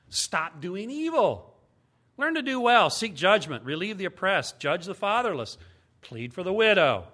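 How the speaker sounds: preacher proclaiming scripture; proclaimed commands. Acted. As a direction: declare each line like a decree.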